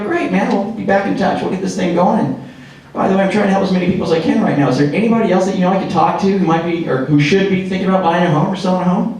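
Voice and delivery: casual friendly script, brisk; demo script read. Shown as a demonstration. Coach demonstrating the referral script to agents, brisk and casual. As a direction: rattle the referral ask off like a natural close. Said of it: "this is the script".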